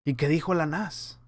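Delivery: mock back-and-forth among onlookers; confused crowd chatter. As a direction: lightly act out gullible people relaying an order. Acted murmuring among the confused crowd.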